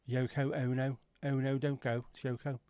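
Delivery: camp Wirral O vowels; fronted, fluted O in a Wirral accent. Shown as a demonstration. Showing how the Wirral says the letter O, Wirral accent. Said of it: "how they pronounce the letter O".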